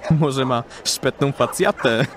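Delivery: slow mocking jibe. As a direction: take your time poking fun at him. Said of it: "Zadrwił palący fajkę łysol".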